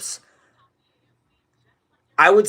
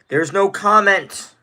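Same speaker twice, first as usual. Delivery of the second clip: "There's no comment" drawn out slowly and louder; slow and emphatic; 5 semitones higher, 4 dB louder, slower than usual. Acted. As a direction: spell out "There's no comment" word by word. Streamer dodging a question.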